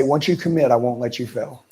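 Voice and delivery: steady, sure promise; confident. Shown as a demonstration. Coach showing a trainee a confident promise. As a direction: say it like you mean it. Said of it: "Give 'em the confidence".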